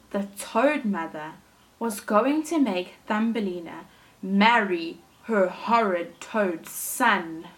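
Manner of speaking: put-on lively storytelling for children; animated read-aloud for little listeners; story narration. A narrator's reading. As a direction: read it like a picture book to a class. Teacher reads story aloud.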